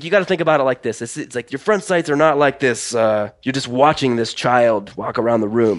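Russian-accented coach impression, explaining; Sergei Luzov. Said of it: "I don't know if I can do a good Russian accent".

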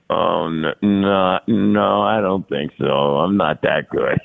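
a hint of Dad's Cuban accent; father's Cuban accent. Son imitating father turning down the ball contract, light Cuban accent. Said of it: "he had a big accent".

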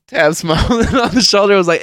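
high, loud, laughing through the words; laughing while talking. Real, not acted. Telling how Zach reacted to the joke, laughing hard. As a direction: tell it while cracking up.

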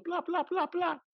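high playful pla sounds; mock popping sounds. Mocking old generations having kids, high playful pla. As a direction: pop them out like a machine. Mimicking endless births.

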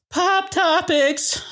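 high, slow segment announcer. Acted. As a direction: announce the segment title slowly.

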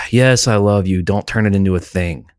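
exasperated sigh, then mild irritation; imitating a partner brushing it off; very annoyed wife. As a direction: sigh first, then impatient reassurance. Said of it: "And her very annoyed goes".

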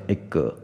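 "一个" as egg with an extra ge syllable; mispronounced egg. Shown as a demonstration. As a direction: imitate a learner adding a vowel after egg. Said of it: "人家念鸡蛋会念成一个".

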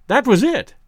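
awed, hushed dread; fearful awe. A narrator's reading. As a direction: say it struck with awe. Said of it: "in an awestruck voice".

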